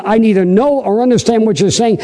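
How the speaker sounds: Peter denying. Acted. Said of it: "But he denied it, saying".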